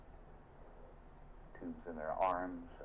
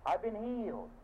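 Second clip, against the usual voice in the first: grateful churchgoer; 3 dB louder than usual. Retold or imitated. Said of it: "someone comes up and says".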